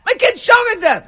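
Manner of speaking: frantic dad shouting for help; panicked father shout. Acted. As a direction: scream it like your kid is choking. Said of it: "And he's like".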